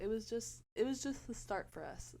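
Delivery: slushy sh for s; heavy lisp on every s. Real, not acted. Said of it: "my lisp is low-key heavy today".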